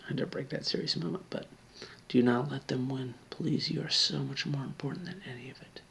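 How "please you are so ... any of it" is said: soft pleading whisper; whispered plea. Real, not acted. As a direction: beg them softly under your breath. Pleading with suicidal viewer.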